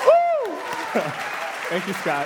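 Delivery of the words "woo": high loud whoop; whooping cheer. Real, not acted. Preacher cheering after the husband's shout.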